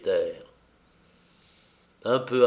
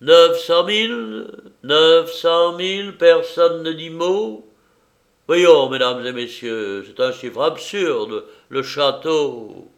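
loud, higher, pleading auctioneer; flustered, urgent; 6 semitones higher, 8 dB louder than usual. A narrator's reading. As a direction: beg the room for a bid. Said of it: "s'effara et répéta précipitamment". (affolé et pressant)

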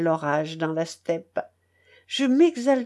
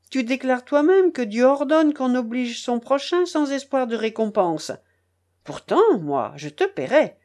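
angry harangue; 3 semitones higher than usual. Acted. Charcot harangues the narrator in the rain, indignant and raised. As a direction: pour out all his pent-up resentment. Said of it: "me demanda-t-il avec colère".

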